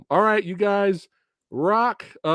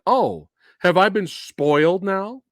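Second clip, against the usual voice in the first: mock dismay; 5 semitones higher, 5 dB louder than usual. Quotes own worried reaction to poster.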